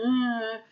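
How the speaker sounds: drawn-out movie-zombie moan; zombie groan. Retold or imitated. Mom picturing zombie movies, imitated zombie groan. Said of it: "all those zombie movies".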